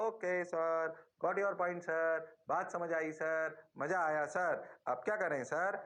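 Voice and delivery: a hint of chanting pupils; lightly voiced student. Teacher mimics students confirming they understood, lightly voiced. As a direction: recite it like a class answering in chorus.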